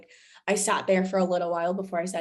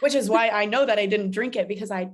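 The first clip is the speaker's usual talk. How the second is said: laughing; 5 dB louder than usual. Real, not acted. Laughing with her friend about the strong gin and tonics. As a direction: let the laugh spill over the words.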